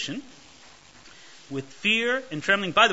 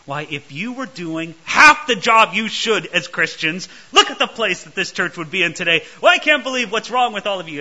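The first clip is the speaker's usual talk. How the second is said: louder, exasperated scolding of the flock; mock annoyed scolding; 6 dB louder than usual. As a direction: scold them like a fed-up preacher. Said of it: "we get annoyed with people".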